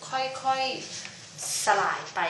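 ค่อยๆ สลายไป drawn long and slow to show gradually; drawn-out slowly. Shown as a demonstration. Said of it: "อย่างช้าๆ ค่อยๆ เป็นค่อยๆ ไป".

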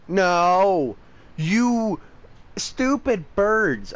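frustrated outburst. Real, not acted. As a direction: snap at the stupid birds, fed up. Birds fly off again.

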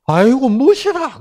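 put-on high, loud Gyeongsang-accented delight; Gyeongsang woman's exclaim. Gyeongsang woman admiring a man, high and loud in Gyeongsang accent. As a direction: gush like a Gyeongsang lady. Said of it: "경상도 여자들 뭐라 그러게?".

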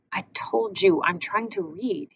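slow, grumpy complaint. Acted. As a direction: grumble it at her. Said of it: "he said in a grumpy voice".

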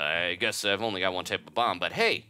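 folksy, hearty shopkeeper. Acted. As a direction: sell it like a rough country merchant. Bomb shop owner dialogue voiced.

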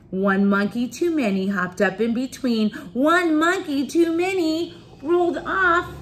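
read-aloud rising into high drama; story reading to children. A narrator's reading. Reader tells children of overloaded cart, dramatic storytelling. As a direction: lift the pitch, stretch the last words.

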